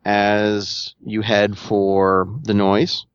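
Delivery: slow, deliberate scene setting with pauses; game master narration. Acted. Game master describes an obstacle on the player's path, deliberate narration. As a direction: unfold it piece by piece.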